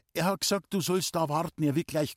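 hastig und deutlich höher heraussprudeln; flinkes Gesprudel. A narrator's reading. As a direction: sprudle die Notlüge schnell heraus. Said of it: "mit flinkem Gesprudel". (Loni sprudelt vor Pauli eine schnelle Lüge heraus)

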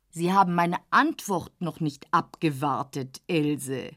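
ein Hauch tiefer, gönnerhafter Herr; leicht gespielter älterer Herr. Acted. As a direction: als älterer Herr väterlich zur jungen Frau. Dorsday spricht. (Herr von Dorsday, leicht tiefer gesprochen, gönnerhaft)

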